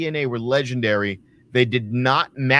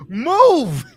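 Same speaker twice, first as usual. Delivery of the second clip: imitated ref shout; 11 semitones higher, 8 dB louder than usual. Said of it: "you can hear the ref go".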